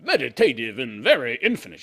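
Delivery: slow, breathy-free mock dreamy artist; mock dreamy Jodi. Host imitating the bridge lover in a slow dreamy voice. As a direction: drift through it like a dazed artist. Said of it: "She probably sounds like that".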